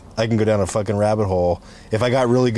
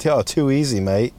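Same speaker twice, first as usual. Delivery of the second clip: put-on Australian accent. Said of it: "we were talking like".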